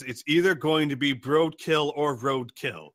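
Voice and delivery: a mild venomous threat. Acted. Robot threatening the Broadkill, understated venom. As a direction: spit the pun as a threat. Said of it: "says it with quite a bit of venom".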